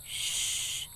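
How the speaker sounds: a breathless whispered hush; warning hush. A narrator's reading. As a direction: hush him urgently under the breath. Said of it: "warned one of David's brothers".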